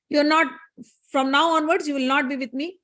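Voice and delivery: lightly voiced indignant goddess; stern rebuke. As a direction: pronounce judgement, mildly outraged. Goddess rebukes and banishes her servant.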